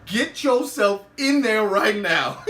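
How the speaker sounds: slow, stern retold command; deliberate, no-nonsense mock threat; cold order. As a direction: order him inside word by word. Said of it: "gives him that coldest stare".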